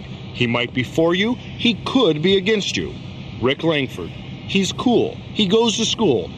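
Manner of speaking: dramatic announcer. Acted. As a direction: build suspense like a crime show host. Dramatic TV host narration.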